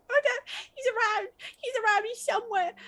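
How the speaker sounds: put-on very high, whimpering child voice; blubbering kid. Inconsolable kid answering about his brother, blubbering. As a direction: blubber like a scared little boy. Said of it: "it's just starts blubbering".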